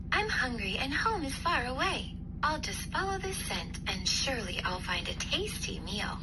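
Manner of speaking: put-on a small girl, hungry and hopeful; little girl dreaming of a meal; Goldilocks voice.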